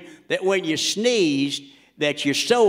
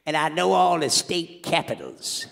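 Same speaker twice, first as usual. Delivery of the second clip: Louisiana voice. Acted. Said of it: "I'm doing the voice of anybody from Louisiana".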